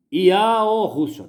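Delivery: Ial Rússua drawn out slowly, high, Ial stressed; the true pronunciation. Shown as a demonstration. Preacher insisting on the only pronunciation, slow and high. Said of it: "Não há outra pronúncia".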